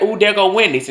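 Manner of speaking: put-on high, lightly excited child's remark; excited kid. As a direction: pipe up, pleased to spot it. Excited child spotting a restaurant.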